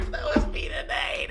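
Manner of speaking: high laughing shout. Real, not acted.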